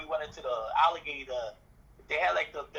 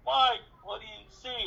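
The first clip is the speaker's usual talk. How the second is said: slow, rattly call, pitched up; rattling voice; 7 semitones higher, 4 dB louder, slower than usual. Retold or imitated. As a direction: imitate John's rattle as he calls down. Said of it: "a little bit of rattling, you know, like me".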